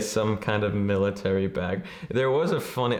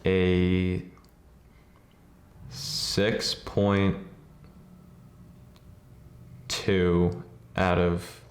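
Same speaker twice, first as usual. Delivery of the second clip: lower, drawn out with long dramatic pauses; rating with flair; 3 semitones lower, much slower than usual. Pretend. Podcast host announcing his film rating, with showy flair. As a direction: deliver a mock-solemn verdict, word by word. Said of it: "give it a flare".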